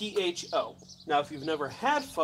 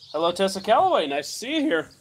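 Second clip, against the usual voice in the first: cracking, breaking voice, much higher pitched; 4 semitones higher, 7 dB louder than usual. Cook greeting a viewer while cooking outside, cracking prepubescent voice. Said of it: "Pardon my cracking prepubescent voice".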